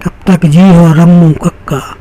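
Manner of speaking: rhythmic Bundeli verse recital; measured poetic delivery with repeated refrain; poem recitation. Acted. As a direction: recite it line by line to an audience, leaning on the refrain. Recites his refrain poem before introducing himself.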